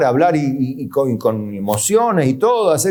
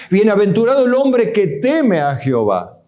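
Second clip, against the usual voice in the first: emphatic quote; 6 semitones higher than usual. Acted. Quoting scripture emphatically.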